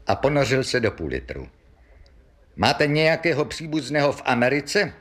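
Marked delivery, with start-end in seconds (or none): 2.6-4.9 higher, mildly sharp official question. Acted. Policeman questioning the pub regular about relatives, sharp. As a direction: question him pointedly. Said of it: "ptal se ostře příslušník".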